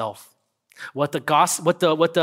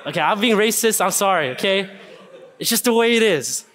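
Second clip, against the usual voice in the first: laughing apology; 4 semitones higher, 3 dB louder than usual. Real, not acted.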